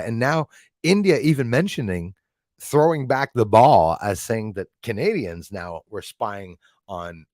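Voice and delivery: ordinary talk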